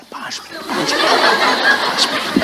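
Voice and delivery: half-laughed, breathy brush-off; laughing child reply. Acted. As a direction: toss it off while still playing. Child answering while playing.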